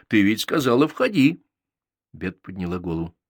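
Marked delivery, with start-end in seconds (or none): 0.1-1.4 grumbling insistence. A narrator's reading. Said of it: "проворчал я".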